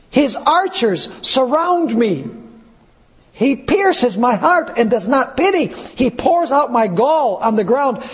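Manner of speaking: slow, solemn reading of a lament; scripture reading. Acted. Preacher reading Job's cry to the church, solemn. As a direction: read it like holy grief.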